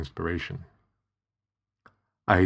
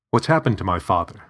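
demanding; 4 dB louder, faster than usual. Acted. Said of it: "I demanded".

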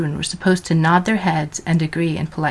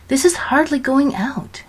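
countering; 8 semitones higher than usual. A narrator's reading. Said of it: "Georgina countered".

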